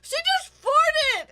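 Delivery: high, loud, slow taunting yell; mocking shout. Boy shouting to the class about her, mocking yell. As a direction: announce it to the whole class, jeering. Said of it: "he literally just goes".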